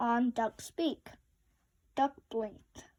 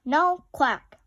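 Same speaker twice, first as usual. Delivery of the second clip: emphatic statement; 2 semitones higher, 9 dB louder than usual. A narrator's reading. Dry echo of question.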